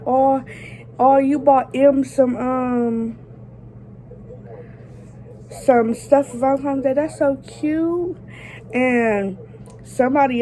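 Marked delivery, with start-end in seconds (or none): 0.0-8.1 high, sugary fake compliment; fake sweet. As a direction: gush with mock sweetness. Petty fake praise to Jay.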